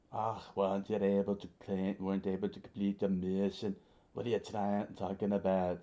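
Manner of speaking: lightly put-on Scottish accent; a hint of Scottish accent. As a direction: speak as a Scottish-accented boss. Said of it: "I did give him the Scottish voice".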